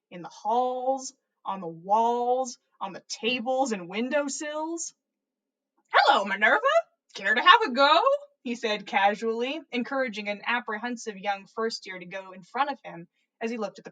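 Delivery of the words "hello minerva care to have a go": loud, bright greeting called out; jolly headmaster hailing a colleague; cheery call. A narrator's reading. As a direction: call up to her gleefully. Dumbledore calls out cheerfully.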